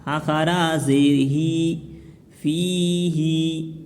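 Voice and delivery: slow, measured Quranic spelling chant; recitation drill. Shown as a demonstration. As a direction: draw out each long vowel on a level tone. (धीमे, लय में हिज्जे का सबक)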